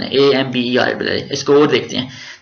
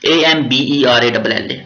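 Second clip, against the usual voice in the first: spelling aloud; slower than usual. Shown as a demonstration. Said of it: "ऐसे लिखेंगे फिर आप".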